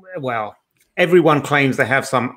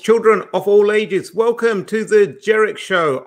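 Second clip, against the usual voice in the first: ringmaster; 4 semitones higher than usual. Acted. Circus-style show opening.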